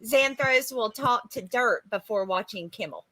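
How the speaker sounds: lightly voiced old-time British streetwalker; eighteenth century hooker. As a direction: read it with a hint of a period hooker. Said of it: "like, eighteenth century hooker reading that".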